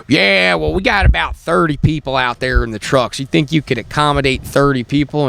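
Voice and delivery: a hint of a hard-hat worker's voice; mimicked hard-hat guy. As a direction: put on a slight big-lug voice. Mimics hard-hat man at motel.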